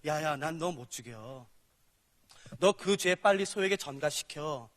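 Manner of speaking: low, slow voice of God; lightly voiced God, slow and low; God speaking. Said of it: "그래서 이렇게 말씀하세요".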